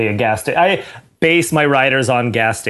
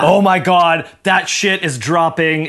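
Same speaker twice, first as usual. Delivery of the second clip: excited; 5 semitones higher than usual. Retold or imitated. Kid hyped about new cereal.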